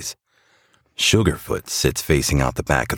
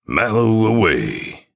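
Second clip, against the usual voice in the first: slow, higher-pitched level call; focused monotone; 8 semitones higher, 4 dB louder, slower than usual. A narrator's reading. Jingleman releases the marshmallow, focused drawn-out monotone. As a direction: hold one note, drawn out. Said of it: "in a focused monotone".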